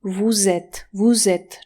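"W Z" run together as "voo-zet"; read as one word. Shown as a demonstration. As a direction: link it with a voiced z, "voo-ZET". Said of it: "Czytasz jak jeden wyraz".

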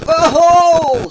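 loud, high cry of "oh"; sudden high-pitched outcry; pained yelp. Acted. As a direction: yelp as if bitten all over. Cheetah bitten by termites cries out.

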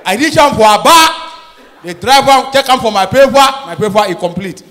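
loud, high-pitched complaining traveller; aggrieved Pidgin rant. Retold or imitated. Traveller ranting at border officer, loud. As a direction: shout the grievance up high. Angry man retelling border checks.

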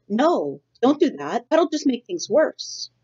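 put-on high, pleading young bird voice; a fretful little gosling begging; upset gosling. Upset gosling begs mother.

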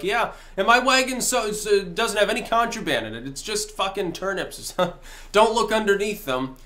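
mock-innocent merchant with a little chuckle; itinerant merchant. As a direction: play a smuggler casually bluffing past inspection. Voices merchant bluffing at the border.

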